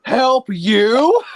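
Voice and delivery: loud, high sneering villain laugh; Diesel 10 villain voice. Shown as a demonstration. Villain voice demo for friends, loud sneering cackle. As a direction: gloat like a cackling engine villain. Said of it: "my personal favorite, Diesel ten".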